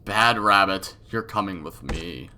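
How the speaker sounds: lightly voiced menacing captor; creepy villain scolding. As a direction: scold her like a twisted big brother. Villain scolds captured girl.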